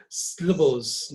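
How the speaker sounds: SYLLABLES run together as "sllables", first vowel dropped; one-syllable mispronunciation. Shown as a demonstration. Teacher mimics someone making it one syllable, word squashed. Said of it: "person making a one syllable say".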